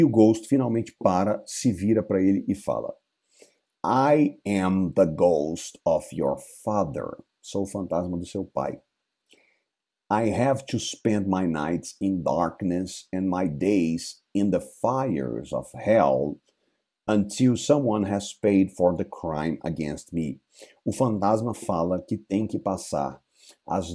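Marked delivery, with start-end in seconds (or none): 3.8-7.2 low, slow ghostly voice; dead father's ghost, slow and hollow. Acted. Ghost reveals himself to Hamlet. 10.1-20.4 low, slow ghostly voice; dead father's ghost, slow and hollow. Acted. Ghost speaking to Hamlet.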